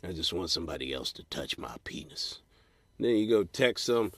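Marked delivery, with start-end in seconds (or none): 0.0-2.4 lonely confession. Retold or imitated. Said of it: "and got myself".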